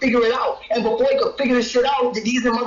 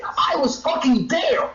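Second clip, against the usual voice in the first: "I was fucking there" slowed for emphasis; emphatic insistence; slower than usual. Real, not acted. Heated quarrel, insisting he was present.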